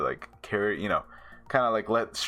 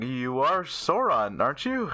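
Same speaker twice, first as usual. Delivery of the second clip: mock accusing question; 5 semitones higher than usual. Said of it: "and he's like".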